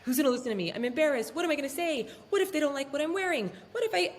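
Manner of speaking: imitated nervous inner voice; mock self-doubt. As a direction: act out camera-shy worry, pitch rising as it builds. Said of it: "It feels so weird to talk into a camera".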